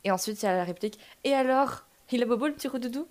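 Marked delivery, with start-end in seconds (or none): 1.2-3.1 sugary mock-sweet baby talk; honeyed voice. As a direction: coo it like a fake-kind nurse. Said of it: "d'une voix mielleuse".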